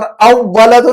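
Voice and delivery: اول تو said "aw-waladu" with the L swallowed; wrong assimilation. Shown as a demonstration. Teacher showing what cannot be said, اول تو as "aw-waladu". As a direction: double the W and skip the L in اول تو, as the mistake. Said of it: "نہیں بول سکتے ہم".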